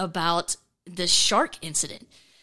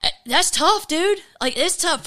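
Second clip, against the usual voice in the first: wincing admission; 8 semitones higher than usual. Real, not acted.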